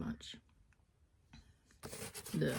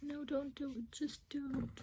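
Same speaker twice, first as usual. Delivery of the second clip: higher, lightly pleading warning; pleading onlookers; 8 semitones higher than usual. Retold or imitated. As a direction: beg someone to stop, half-joking. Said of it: "people will go".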